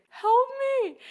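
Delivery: high, loud mock yell for help; loud cry for help. Joey calling from the shower again, a high mock yell. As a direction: repeat the same shower yell. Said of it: "He would say".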